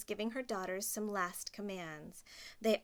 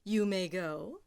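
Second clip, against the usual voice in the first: stepmother. Acted. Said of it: "she said".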